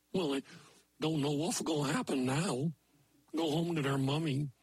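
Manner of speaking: a lightly voiced moose telling a fairy tale; folksy moose storyteller. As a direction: tell it like a folksy old moose. Maynard Moose tells a folk tale.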